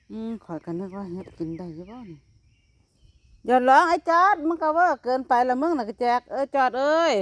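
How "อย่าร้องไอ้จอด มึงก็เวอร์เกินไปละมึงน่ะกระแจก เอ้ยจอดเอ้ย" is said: scolding call. Real, not acted. Scolding a crying child. (ดุเสียงดังให้หยุดร้อง)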